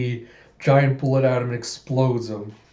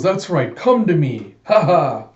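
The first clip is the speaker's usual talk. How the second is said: louder, higher villain taunt; taunting shout; 4 semitones higher, 5 dB louder than usual. Acted. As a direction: call her in with a gloating laugh. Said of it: "He goes".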